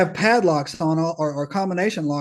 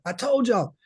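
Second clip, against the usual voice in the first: higher-pitched mock outburst; vindicated cry, pitched up; imitated going nuts; 5 semitones higher than usual. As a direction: imitate a worked-up guy insisting. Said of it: "he just goes nuts".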